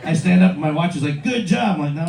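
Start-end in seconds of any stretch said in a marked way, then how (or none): 1.2-1.8 mildly sarcastic praise. Acted. Smartwatch praising owner for standing up, lightly sarcastic. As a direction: hand out mock congratulations. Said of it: "No, it's sarcastic".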